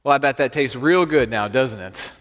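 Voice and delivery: dry farmer's sarcasm; understated sarcastic jab. Acted. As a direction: needle the kid with mock approval. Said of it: "the farmer just sarcastically looks at this kid".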